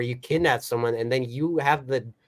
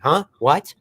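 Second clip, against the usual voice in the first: louder, mock rude comeback; hammed-up bratty retort; snapping back; 6 dB louder, slower than usual. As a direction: throw it back at her, rude. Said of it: "He's like".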